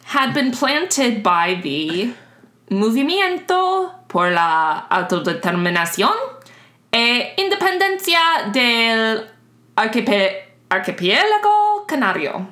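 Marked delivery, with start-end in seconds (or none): 2.7-12.5 careful Spanish "Movimiento por la Autodeterminación"; Spanish pronunciation. Real, not acted. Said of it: "I don't know what that means".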